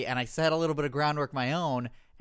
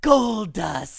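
squeaky ventriloquist dummy; 5 semitones higher, 9 dB louder than usual. Acted. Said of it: "look under Paul the Giant".

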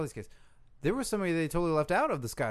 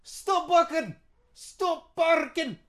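loud high yell at the dogs; comic wrestler yelling at his dogs mid-interview; shouting at dogs; 11 semitones higher, 4 dB louder, much slower than usual. Acted. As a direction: bark the order at barking dogs.

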